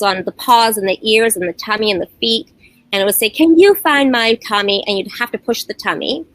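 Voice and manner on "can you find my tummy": toy voice. Retold or imitated. Imitating talking stuffed toy.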